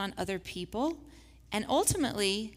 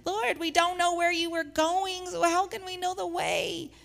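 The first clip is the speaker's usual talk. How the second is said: puzzled Thomas; 8 semitones higher, 4 dB louder than usual. Acted. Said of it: "Then Thomas ch-, chimes in".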